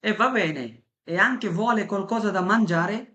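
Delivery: very slow Italian echo, x0.3 pace; slow repeat after the clip. Shown as a demonstration. Teacher echoing the café dialogue very slowly, for students. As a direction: shadow the waiter's question word by word. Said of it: "এখন আপনিও বলবেন".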